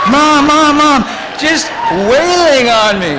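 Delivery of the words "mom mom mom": high, loud pleading cries of Mom; yelling for mom. Retold or imitated. Son crying out to his mom while she beats him, loud and high. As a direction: cry out for Mom while getting hit.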